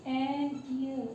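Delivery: "an year" slowly drawn out, year opening on a vowel; careful pronunciation. Shown as a demonstration. Teacher modelling the article, "an year" slow and vowel-first. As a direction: stretch "an year" as ann ee-yar, no y glide. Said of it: "same जैसे ईयर को pronounce किया जाता है".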